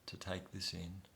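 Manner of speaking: tender reassurance to a frightened younger self; gently said. Shown as a demonstration. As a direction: comfort a scared child, lightly voiced. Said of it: "You just gently say".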